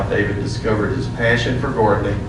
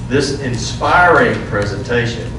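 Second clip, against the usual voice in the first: slow and louder, leaning on inspiring and presentation; emphasized words; 2 semitones higher, 4 dB louder than usual. Shown as a demonstration. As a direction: read it slow, punching each word. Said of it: "I'm gonna go ahead and emphasize those particular words".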